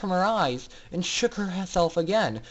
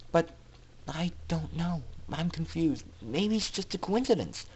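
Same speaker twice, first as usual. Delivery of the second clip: musing; 2 semitones higher than usual. Acted. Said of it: "Aurora mused".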